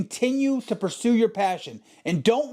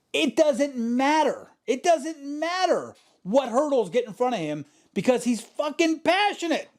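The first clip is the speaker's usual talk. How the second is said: fired up; 6 semitones higher than usual. Real, not acted. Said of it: "I get motivated just talking like this".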